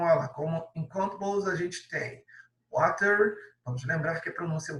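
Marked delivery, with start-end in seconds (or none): 2.7-3.4 water with a crisp British T, wa-ter; British pronunciation. Shown as a demonstration. Teacher showing students the British water, crisp T. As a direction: clear British water, T sounded sharply. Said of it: "eu tô pronunciando aqui de modo britânico".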